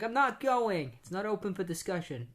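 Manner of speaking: firm dad. Retold or imitated. Dad insists firmly.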